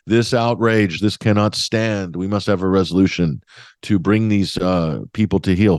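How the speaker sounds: a touch of indignant UN speech, slowed on "this cannot stand"; pompous protest, lightly hammed-up; mock outraged diplomat. Western envoys at the Security Council, in mock outrage. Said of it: "pounding their fists on the table".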